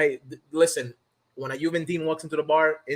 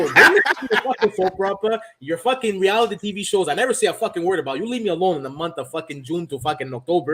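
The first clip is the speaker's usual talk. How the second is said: mock rant at wife; 3 semitones higher than usual.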